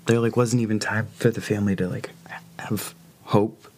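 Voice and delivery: crying, catching breath between words; words broken by catching breath; catching breath midword. Real, not acted. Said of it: "I'm sorry, I'm crying".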